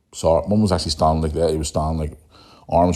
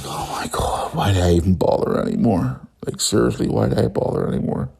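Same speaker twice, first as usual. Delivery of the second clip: whispered despair; 3 semitones higher than usual. Retold or imitated. Despairing inner thought.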